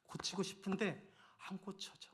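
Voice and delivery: soft, slow, almost whispered plea; retold tearful confession. Husband confessing to his wife, in mild retold tears. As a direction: mildly voice the tears of a husband who can't change. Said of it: "제 아내한테 울면서 말했어요".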